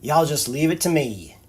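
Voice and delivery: put-on Barret accent. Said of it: "my accents need work".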